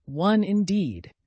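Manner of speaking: mock-huffy retort, very slow; indignant. A narrator's reading. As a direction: scoff at her, drawn out. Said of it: "said the Dormouse indignantly".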